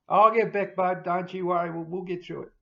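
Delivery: holding back tears; emotional. Real, not acted. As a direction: voice thick with emotion. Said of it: "I'm getting emotional again".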